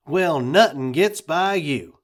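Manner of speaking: dry sarcasm. A narrator's reading. Miss Rose's dry retort.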